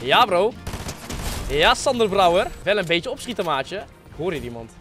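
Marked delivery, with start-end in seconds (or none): 3.8-4.7 low, hushed voice; whispering while hiding. Real, not acted. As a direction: say it softly so nobody hears. Seeker hears someone nearby.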